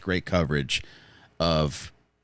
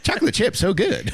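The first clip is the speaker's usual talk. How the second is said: high, stilted robot voice; glitchy robot doing a bit; glitching robot; 10 semitones higher than usual. Pretend. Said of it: "You just sound like a malfunctioning sex robot".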